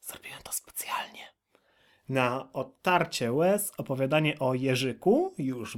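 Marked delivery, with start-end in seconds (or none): 0.0-1.2 quick, hushed whispered admission; fast stage whisper to the listener; confiding whisper. Pretend. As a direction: whisper it like a sly secret. Confides the noise was deliberate.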